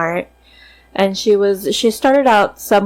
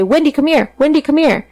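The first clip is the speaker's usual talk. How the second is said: higher, lightly voiced parrot calling like Dad; parrot mimicking Dad; 7 semitones higher than usual. Parrot copying Dad calling Wendy, lightly voiced higher call. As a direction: squawk it out like a bird copying a man. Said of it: "she would mimic Dad's voice".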